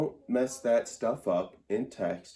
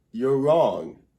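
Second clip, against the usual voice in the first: put-on delinquent kid; 3 semitones higher, 7 dB louder than usual. Shown as a demonstration. Mocking his friend Luke like a snotty school delinquent. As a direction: sound like a little shaggy kid talking back. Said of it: "makes me sound like, um, a delinquent".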